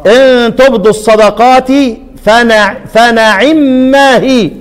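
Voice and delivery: slow tajweed recitation; Quran recitation. Shown as a demonstration. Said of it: "خدوا بالكم". (تلاوة متأنية بالتجويد)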